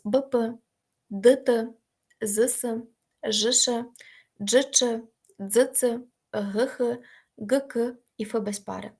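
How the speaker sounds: each pair of letters punched separately; letter-pair drill. Shown as a demonstration. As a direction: dictate the pairs for the class to echo. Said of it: "повторіть, будь ласка, за мною ще раз". (диктує пари букв для повторення)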